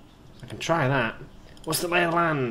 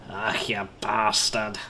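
slow, savoured Scottish swearing; Scottish accent; 3 semitones lower, much slower than usual. Shown as a demonstration. Showing how the Scots say bastard, Scottish accent. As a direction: draw out the insult in a Scottish accent. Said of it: "No one says bastard better than the Scottish".

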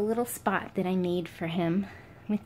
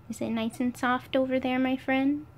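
pet talk; 5 semitones higher than usual. Real, not acted. Cooing at the pet.

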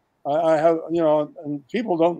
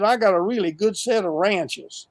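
put-on Southern accent; 3 semitones higher than usual. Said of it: "good old boy with a Southern accent".

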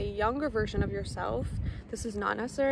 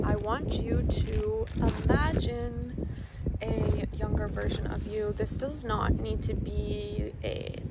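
guided meditation; 3 dB quieter than usual. Acted. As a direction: lead them gently into the visualization. Leads inner child visualization.

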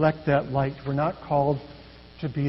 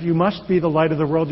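mock command. Shown as a demonstration. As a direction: stress on "be", a firm demand. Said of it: "it's not a command".

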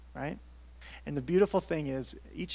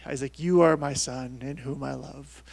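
slow, mock-solemn God voice; a tenor straining lightly at a bassy God; slow, playful divine proclamation; 4 dB louder than usual. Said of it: "in my God voice, which is pretty low and bassy".

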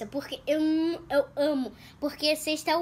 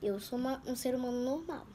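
talking through a mouthful; words round a bite of food; mouth full; 6 dB quieter than usual. Real, not acted. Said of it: "Ainda falando de boca cheia".

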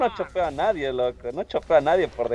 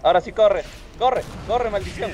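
being chased; 5 semitones higher than usual. Real, not acted. Hero being chased, urges running.

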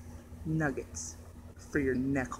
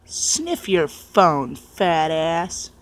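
slow, louder teasing command; 4 dB louder, much slower than usual. Acted. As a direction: drag it out, mock bossy. Taunting friend to sniff.

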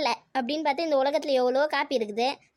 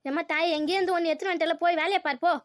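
mildly exasperated scolding; tense, irritated; 3 semitones higher than usual. Acted. Mother-in-law ordering daughter-in-law back to work, irritated. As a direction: snap a little at her, impatient to be obeyed. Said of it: "ஏன் அத்தை tension ஆகுறீங்க".

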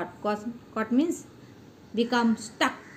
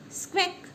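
squawk sound; 9 semitones higher, 3 dB quieter than usual. Shown as a demonstration. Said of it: "Squawk means mouse".

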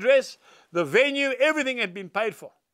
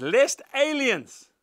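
very slow, each word weighed; slow scripture reading; 3 semitones higher, much slower than usual. Shown as a demonstration. Preacher reading Proverbs to his congregation, very slow. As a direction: read the verse out slowly and deliberately.

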